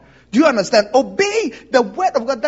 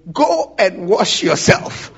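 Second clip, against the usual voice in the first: retold curt order; 4 semitones lower, slower than usual. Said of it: "the guy was so offended".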